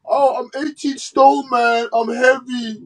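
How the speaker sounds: slow, high whiny imitation; mocking whiny excuse. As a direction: drag it out like a sulky boxer. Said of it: "his stupid rant".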